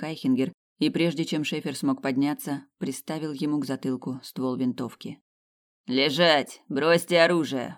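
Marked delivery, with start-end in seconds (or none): 5.9-7.7 commanding shout. Acted. Colonel arrests Schaefer.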